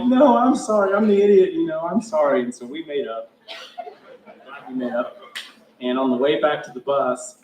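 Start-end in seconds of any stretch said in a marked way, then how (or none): 0.0-2.4 high-pitched hammed-up pleading, easing down; mock tearful apology. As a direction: insist through pretend blubbering. Retold tearful making up with coach.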